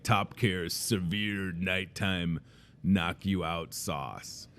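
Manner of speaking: slow dramatic product name. Retold or imitated. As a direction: drag it out like an ad. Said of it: "mock product name".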